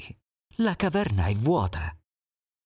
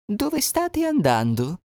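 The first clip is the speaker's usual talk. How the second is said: sly fox; 2 semitones higher than usual. Acted. Fox calling to passing animals, sweet. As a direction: greet them with sugary charm.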